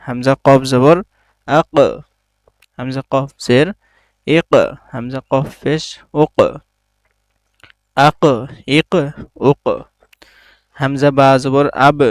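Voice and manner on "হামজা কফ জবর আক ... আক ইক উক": কফ at each end of আক ইক উক bounced with a small push; bounced qalqala letters. Shown as a demonstration. Quran teacher showing the qalqala bounce on আক, ইক, উক. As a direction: push out the final কফ of আক, ইক, উক like a quick echo. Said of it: "এটাকে ধাক্কা দিয়ে পড়তে হবে".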